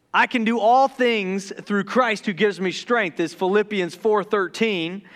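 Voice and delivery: careful, deliberate retake of the verse; calm measured quote of the verse; slowed down. Real, not acted. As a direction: reset and say each word clearly. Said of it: "Let me slow down".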